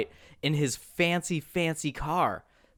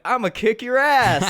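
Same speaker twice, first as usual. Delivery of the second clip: mock redneck threat; 8 semitones higher, 5 dB louder than usual. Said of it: "he's like".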